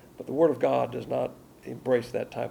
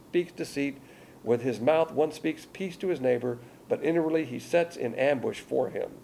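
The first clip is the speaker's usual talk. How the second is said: forceful scripture reading; 2 semitones higher than usual. Acted. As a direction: thunder the verses out. Preacher reads verse.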